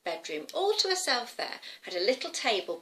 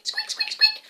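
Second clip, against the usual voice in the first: very high, loud squeaking; mouse squeaks; 6 dB louder than usual. Pretend. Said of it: "Should we squeak?".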